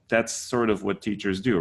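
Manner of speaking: ordinary talk, nothing marked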